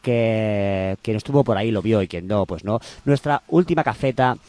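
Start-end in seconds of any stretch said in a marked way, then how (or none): 3.0-4.4 hand over mouth. Real, not acted. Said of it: "con la mano en la boca y estás haciendo eco de ti mismo".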